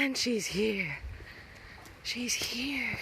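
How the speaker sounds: soft unvoiced whisper. Real, not acted. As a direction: breathe it out in relief. Relieved whisper on finding dog.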